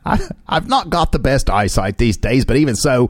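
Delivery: put-on a loose, makeshift Australian accent. Reading an elderly Englishman's quote aloud to a co-host, mock Australian accent. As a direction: read it in an amateur Australian accent. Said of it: "I'm using my Australian accent".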